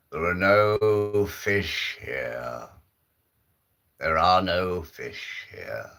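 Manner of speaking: slow, booming voice from nowhere. Acted. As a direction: boom it out slowly. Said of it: "this big booming voice".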